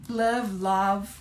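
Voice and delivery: "love" first as "luv", then as "lawv"; two variants. Shown as a demonstration. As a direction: contrast "love" with short U, then "love" with open O. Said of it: "Todo mundo vai entender".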